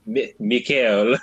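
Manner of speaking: put-on drawn-out name in a rough Spanish accent. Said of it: "he has a Spanish accent".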